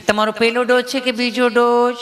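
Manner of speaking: a lightly voiced gentle nurse; sweet nurse. Nurse sweetly asking the patient about his dose, lightly voiced. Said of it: "એટલું પ્રેમથી પૂછ્યું કે".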